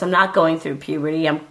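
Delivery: cracking voice from a cold; hoarse, cracking voice with a cold. Real, not acted. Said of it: "my cracking voice".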